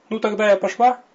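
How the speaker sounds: put-on high, timid young demoness. A narrator's reading. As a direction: ask shyly and warily. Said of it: "робко и настороженно поинтересовалась".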